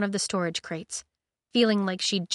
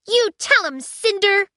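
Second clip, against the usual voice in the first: high excited cheer; 13 semitones higher, 8 dB louder than usual. Acted. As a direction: cheer her on brightly. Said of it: "Aiko cheered".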